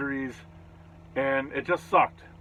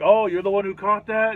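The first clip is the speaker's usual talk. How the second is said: higher, louder retold surprise; surprised recognition; 7 semitones higher, 7 dB louder than usual. Jay recognizing the fan who caught it, retold surprise. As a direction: imitate a pleasantly surprised idol. Retelling an idol's surprised reaction.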